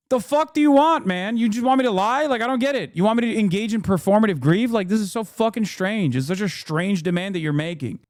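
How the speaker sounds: exasperated retort. Retold or imitated. Answering people who demand performative grief, exasperated outburst. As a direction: fire back in disbelief, voice climbing.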